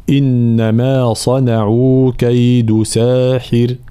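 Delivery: slow recitation ending on a light raa; تلاوة بترقيق الراء; Quran recitation. Shown as a demonstration. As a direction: recite slowly, stop on a thin raa in ساحر. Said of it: "راء ساكنة مسبوقة بكسر".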